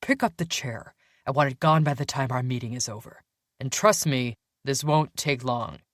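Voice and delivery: lightly voiced intimidating councilman; stern boss. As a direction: give curt orders as the boss.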